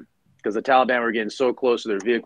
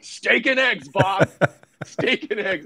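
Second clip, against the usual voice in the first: higher, firm repeated order; commanding colonel; 9 semitones higher, slower than usual. Retold or imitated. Colonel telling the supply officer what Marines eat, emphatic. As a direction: insist like a colonel settling it.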